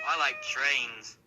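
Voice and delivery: slow, low monotone; deadpan oddball. Acted. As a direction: say it slowly, low and blank. Odd child's deadpan catchphrase.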